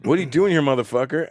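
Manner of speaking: What are you doing here, motherfucker? as a hard, hostile confrontation; menacing challenge. Retold or imitated. Retelling the jerk at the lounge, a mock menacing challenge. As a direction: square up and threaten him. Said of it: "it was like".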